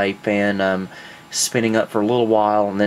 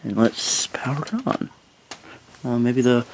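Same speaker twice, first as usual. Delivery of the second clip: hushed breathless whisper as it powers on; 2 semitones higher, 3 dB quieter than usual. Real, not acted. Builder powering on his new PC, whispering. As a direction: whisper it, holding your breath. Tense moment powering on computer.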